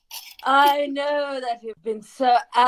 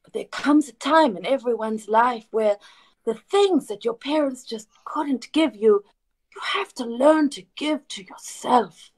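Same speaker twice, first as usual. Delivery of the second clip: tender parent. Acted. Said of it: "and I say".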